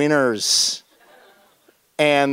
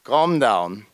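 calming down. Retold or imitated. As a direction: talk yourself down from the panic. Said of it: "And he said".

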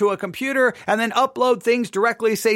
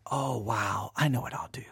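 inner thought; 9 semitones lower, 10 dB quieter than usual. Retold or imitated. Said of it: "I thought".

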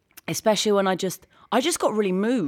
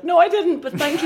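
surprised reply; 11 semitones higher, 6 dB louder than usual. Retold or imitated. Retold reply to crying Marta.

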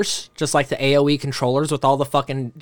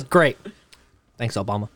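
sarcastic; 6 semitones lower than usual. Retold or imitated. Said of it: "he says".

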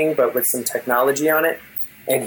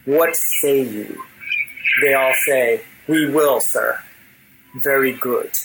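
unearthly king. Acted. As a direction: speak down to the generals as a menacing ruler. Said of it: "And with this unearthly voice".

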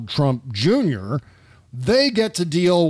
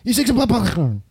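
slow, higher dopey voice; mocking Eric Trump; 4 semitones higher, slower than usual. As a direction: dim guy fumbling words. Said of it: "he can't even say corn".

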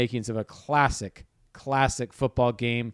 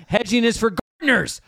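laughing; 9 semitones higher, 6 dB louder than usual. Real, not acted. Laughing at own joke.

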